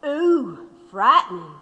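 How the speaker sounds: sarcastic ooh, frightening; dry mock alarm; mock fright. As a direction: pretend to be scared, teasing. Prisoner mocking the threat.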